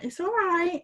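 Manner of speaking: high coaxing reassurance; soothing. Retold or imitated. Talking to the spider, high soothing coo. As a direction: soothe it like a pet. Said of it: "I pat it on the head".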